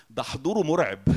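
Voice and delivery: ده حضوره مرعب with مرعب said as the mistaken word; wrong word. Shown as a demonstration. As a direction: say مرعب as the slip, firm. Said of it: "ده حضوره مهوب".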